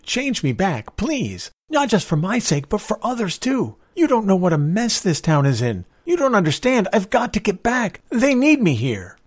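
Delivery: high, urgent, insistent begging; pleading. A narrator's reading. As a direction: plead desperately for another chance. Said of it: "George pleaded".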